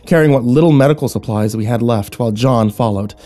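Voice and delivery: measured, deliberate storytelling with pauses; suspenseful story narration. A narrator's reading. Narrator describing the crystal field, suspenseful narration. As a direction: let the discovery dawn gradually.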